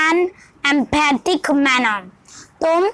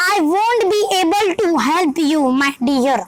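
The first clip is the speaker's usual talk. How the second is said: slow, haughty, lightly acted brush-off; arrogant; much slower than usual. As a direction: talk down to her, drawn out. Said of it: "Reema ने बोला with an arrogant accent". (धीमी, हल्की घमंडी आवाज़)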